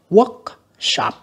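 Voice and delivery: Workshop split in two, WORK high; first-syllable stress. Shown as a demonstration. Teacher marking word stress, Workshop stressed on work. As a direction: lift work in Workshop, then drop on shop. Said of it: "âm một ha".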